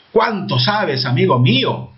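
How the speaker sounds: "Cuánto sabes" pitched high, then falling on "amigo mío"; admiring exclamation, "Cuánto" lifted. Shown as a demonstration. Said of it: "Exclamación, admiración".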